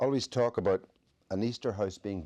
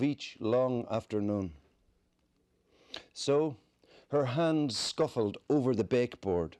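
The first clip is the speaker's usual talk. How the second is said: slow, spaced verse with long pauses; measured poetry recital; poem reading; 2 semitones higher than usual. Acted. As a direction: recite the poem unhurriedly, image by image. Reads poem Sunlight.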